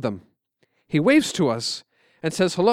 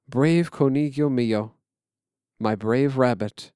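father's voice; slower than usual. Retold or imitated. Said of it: "in his father's voice".

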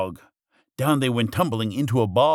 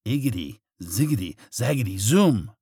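witch's incantation building to last word; lightly voiced storybook witch casting magic; muttered spell. A narrator's reading. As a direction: chant the nonsense words like a spell. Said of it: "she muttered a spell".

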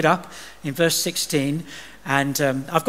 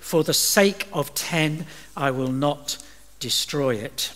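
a lightly voiced patient God; 4 dB quieter, slower than usual. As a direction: settle it calmly and slowly. God's final answer, slow.

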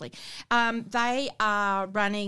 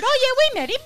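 high, breezy dismissive voice; mock casual politician; 10 dB louder, much faster than usual. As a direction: toss it off like a politician. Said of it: "Came out and said".

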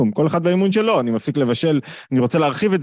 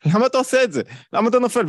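high-pitched, pleading why; exasperated challenge; 9 semitones higher, faster than usual. Acted. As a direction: press him hard, almost begging. Challenging someone who keeps failing.

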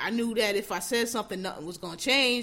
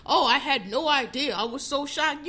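mock shocked celebrity; 3 semitones higher, 4 dB louder than usual. Mocking celebrity statements.

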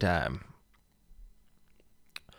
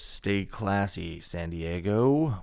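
news anchor voice; 4 dB quieter, slower than usual. Retold or imitated. Movie catchphrase sign-off.

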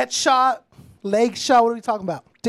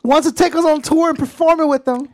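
higher, excited pitch from a pop star; lightly voiced celebrity selling the offer; 5 semitones higher, 4 dB louder than usual. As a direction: push the big offer in a raised voice.

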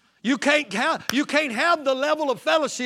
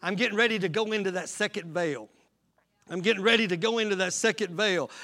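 lower, softer, quick inner voice of a priest; priest voiced; 4 semitones lower, 4 dB quieter, faster than usual. Preacher voicing a priest preparing for the veil, hushed and fast. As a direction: murmur it low and fast like a priest readying himself. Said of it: "that priest is saying".

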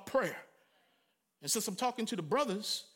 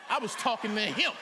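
laughing, pointed correction; laughing retort. Retold or imitated. Preacher laughingly correcting the sister in church. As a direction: tease it with a laugh, stress him. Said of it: "I turned and said to the sister".

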